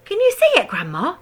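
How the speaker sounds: put-on high loud boy's call; excited shout. A narrator's reading. George shouting up to Grandma on the roof. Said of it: "George shouted".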